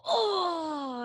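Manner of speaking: long, high cringing "oh"; drawn-out groan at the memory, high; mortified groan. Retold or imitated. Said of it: "every time I think about it, I go".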